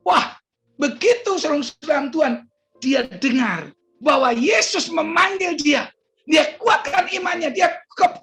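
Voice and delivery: high, rousing preacher's delivery; impassioned preaching. Real, not acted. Preacher telling how the blind man rose, high and fervent. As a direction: build the miracle story with fervour. Preaches the climax at full force.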